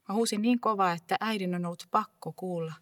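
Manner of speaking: put-on loud, raw cry of a child calling mother; desperate shout fading into telling; anguished shout. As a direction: throw it out as loud as you can. Remembers screaming for mother.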